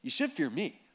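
slow, measured correction, dropping at the end; Jesus setting them straight, slowly; acted rebuke.

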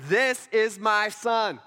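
slow, emphatic proclamation; loud, audible voice. Acted. Voice from heaven declaring love for his son, emphatic. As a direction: project each phrase with spaces between. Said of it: "a loud, audible voice says".

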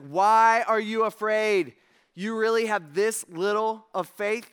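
mildly exasperated, drawn-out challenge; incredulous rebuke. Acted. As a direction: question them in slow disbelief. Jesus voiced scolding afraid disciples.

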